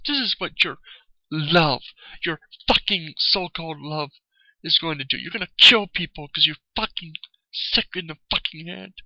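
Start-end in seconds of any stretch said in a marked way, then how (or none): 5.2-8.9 angry accusation. Real, not acted. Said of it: "I'm just pissed off".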